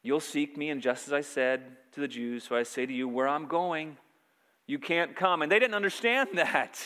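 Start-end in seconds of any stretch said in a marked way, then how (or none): 0.0-5.4 gentle, fatherly retelling; tender. Retold or imitated. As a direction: speak tenderly, like a father to his children. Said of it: "very tenderly, says".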